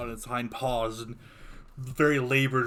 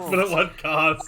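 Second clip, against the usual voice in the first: mildly hammed-up lament, pitched up; mock tragic echo; 3 semitones higher, 5 dB louder than usual. GM echoes the mock-tragic line.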